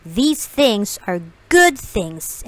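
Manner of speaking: slow, coaxing cat in the hat; drawn out, easy reassurance; cat slowly calming the fish. Acted. Cat defends the Things.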